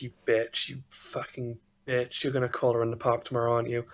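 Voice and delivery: lightly voiced obsessive caller; monotone, obsessive muttered rant; ranting phone caller. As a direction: chant the insults without letting up. Game master voices the phone caller.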